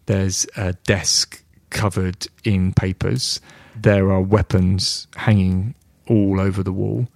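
scene setting. Acted. Game master sets the scene.

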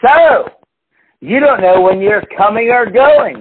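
mocking the customer. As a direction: play the smug boss talking down to the pool guy. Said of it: "he's like".

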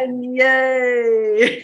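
high, loud yay; excited cheer. Acted. Cheer ending the laughter chant.

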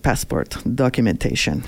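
stern Russian guard, mock accent. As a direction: imitate a Russian officer asking for papers. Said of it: "That's not a bad accent".

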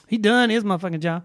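relaxed Black Southern accent; African American accent. Shown as a demonstration. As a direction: say it like a Black auntie. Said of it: "No, that's a black voice".

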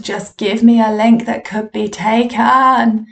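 drawn-out plea, rising at the end; mock pleading. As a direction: act out a desperate plea, stretching the last words. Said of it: "the more I was pleading".

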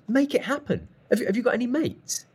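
high-pitched, imitated angry pressing; furious insistence. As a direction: act out an irate mentor demanding action. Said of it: "Glenn was furious".

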